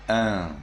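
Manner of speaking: un hummed through the nose; nasal un ending. Shown as a demonstration. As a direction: let un ring in the nose. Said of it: "Instead of N, you read".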